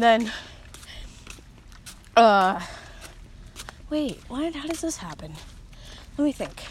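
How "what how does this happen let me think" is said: very soft, repeated murmur fading away; muttering to self. Real, not acted. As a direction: chant it under your breath to jog memory. Muttering to self while remembering.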